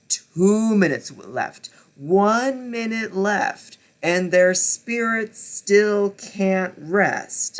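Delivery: stretched anxious count; mounting suspense. Real, not acted. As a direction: drag out the dread. Counting down tense final minutes.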